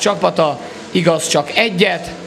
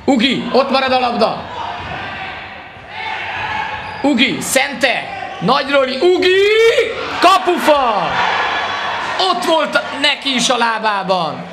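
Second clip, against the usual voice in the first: excited hungarian sports commentary; 6 semitones higher than usual. Real, not acted. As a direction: yell the near miss live. Final seconds goalmouth scramble.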